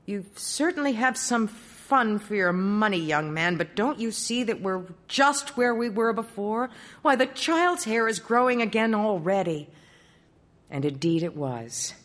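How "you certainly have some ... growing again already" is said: a hint of a wry old king; a king pointing out the problem; lightly voiced king. King speaks.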